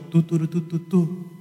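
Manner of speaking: muddled trumpet call on "tu"; uncertain trumpet imitation. Shown as a demonstration. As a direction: toot the wrong battle signal by mouth. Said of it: "en lugar del pa".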